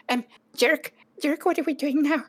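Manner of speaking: high, stammering little goblin; timid goblin caught out; flustered goblin. Acted. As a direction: clutch the spoon and stammer. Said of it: "and he says".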